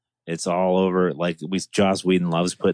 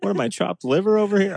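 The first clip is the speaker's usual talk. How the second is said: muttering under breath; 12 semitones higher, faster than usual. Retold or imitated. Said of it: "just muttering under his breath".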